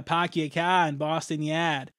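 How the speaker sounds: hammed-up Boston accent, drawn out; lightly imitated Boston accent, pahk your cah. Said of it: "has a Boston accent".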